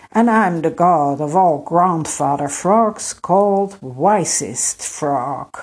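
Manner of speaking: lightly voiced grand old frog; loud, self-important frog pronouncement; frog god. Wisest Frog explaining his magical book to Emir, grand.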